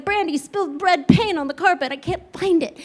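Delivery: high, flustered retold complaint; frantic mother. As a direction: imitate a mom reporting a disaster.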